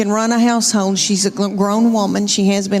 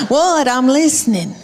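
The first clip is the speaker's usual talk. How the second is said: exasperated mother; 3 semitones higher than usual. Retold or imitated. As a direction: snap back at the endlessly calling child, pitched up. Mother worn down by repeats.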